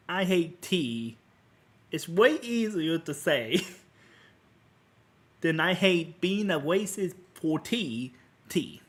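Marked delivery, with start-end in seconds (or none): 0.1-1.2 slow reluctant. Shown as a demonstration. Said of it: "most annoying, pathetic way possible". 5.6-8.8 slow reluctant. Shown as a demonstration. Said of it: "most annoying, pathetic way possible".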